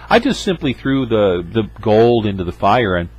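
a hint of a showy excuse; mock Aaron excuse. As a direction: ham up the boom voila. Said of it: "I love that line".

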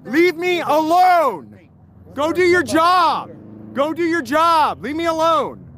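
beg, then snap at the cop; calm turning angry. Real, not acted. Officer pushes him out, he protests.

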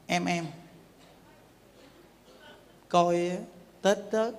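soft, low sweet-talk to his wife; coaxing husband. Retold or imitated. Husband softly sweet-talking his wife for temple money. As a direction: coax her gently, voice dropped low. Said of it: "ông nói với bà vợ nói vậy nè".

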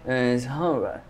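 put-on Seoul Row in a soft London accent, falling; Seoul Row said like a Londoner. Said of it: "In the London accent".

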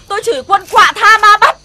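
furious public cursing; loud cursing. Acted. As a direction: throw the abuse out for all to hear. Woman curses loudly in village.

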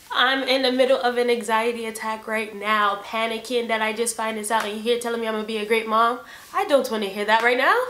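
overwhelmed, emphatic pushback; exasperated retort. Retold or imitated. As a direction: protest like you can't take this now. Overwhelmed, retorting to mom's congratulations.

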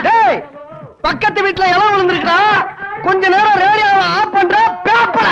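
exasperated, heated demand; angry demand. Acted. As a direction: repeat the request heatedly, dragging out the final words. Angry repeat after being ignored.

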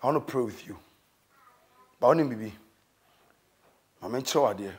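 soft pleading. Acted. Preacher drops to soft pleading.

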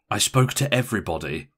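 understated stress on "everybody"; grim emphasis on everybody. A narrator's reading. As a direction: lean grimly on "everybody" without drama. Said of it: "with a grim but, for her, peculiarly undramatic emphasis on everybody".

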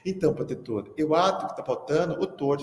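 put-on a light childish lisp; lisping little girl. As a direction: mimic a kid with a tongue-tie. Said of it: "Sofia tinha língua presa". (imitando de leve a menina de língua presa chamando o professor)

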